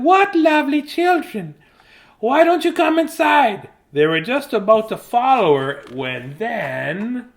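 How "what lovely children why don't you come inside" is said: put-on high, sugary old witch. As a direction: lure the children in sweetly. Witch voice in tale.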